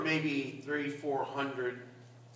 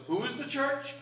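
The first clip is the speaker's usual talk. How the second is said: much higher mock-puzzled question; priest asking again; 10 semitones higher than usual. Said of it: "He goes".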